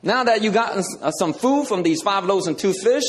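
hammed-up, sarcastic Jesus; mock Jesus. Jesus mockingly offering the crowd a foot washing, high and playful. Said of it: "Jesus didn't go around, you know".

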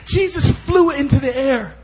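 high, loud and stretched-out proclamation; climactic preaching shout. Real, not acted. Preacher tops his list of miracles, exultant shout. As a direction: build to a drawn-out shout.

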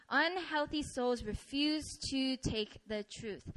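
slow, deliberate repeat ending on "truth"; slow emphasis. Real, not acted. Preacher driving the point home, slow emphasis. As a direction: space out the words and land on "truth".

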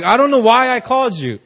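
high, loud mimicry of a baffled caller; hammed-up bewildered friend; helpless confession, imitated. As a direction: pitch it up, playing helpless.

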